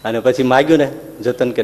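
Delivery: ordinary talk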